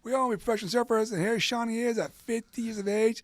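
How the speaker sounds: high, loud mock amazement; the friends marvel at Shawnee surfing the world; amazed friends.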